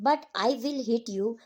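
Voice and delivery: a lightly cold, slow threat; a hint of icy warning, drawn out; a mother coldly scolding her daughter, understated. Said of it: "Mrs Pearson coldly".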